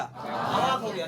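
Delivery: drawn out with a laugh; slow laughing punchline. Shown as a demonstration. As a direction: stretch it out, chuckling. Punchline of the mnemonic story. (हँसते हुए धीरे-धीरे)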